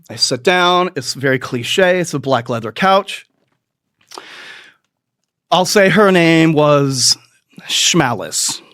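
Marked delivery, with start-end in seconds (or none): 5.5-8.6 whispered name, slow, as if secret; hushed aside. Real, not acted. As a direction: drop to a whisper for the fake name.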